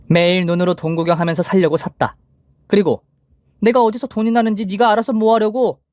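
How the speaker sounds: 높고 날카롭게 받아치는 voiced mother-in-law; 기겁한 시어머니. A narrator's reading. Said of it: "기겁하듯 대답하시더라고요". (기겁하듯 높아지는 목소리로)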